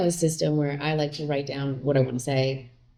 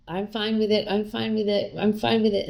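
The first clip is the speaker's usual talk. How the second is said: lightly raised, breezy I'm fine; mock fake fine; 4 semitones higher than usual. Wife mocking her bottled-up self, forced cheery fine. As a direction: repeat it with forced brightness. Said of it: "I'm the kind of person that would just".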